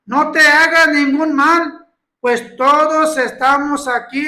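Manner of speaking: slow, loud call to the jailer. Retold or imitated. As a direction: call out to stop him, slow and firm. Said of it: "clamó a gran voz diciendo".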